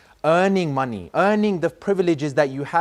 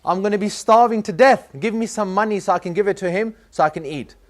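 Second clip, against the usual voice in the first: mock crying like a baby; 4 semitones higher than usual. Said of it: "crying like a baby".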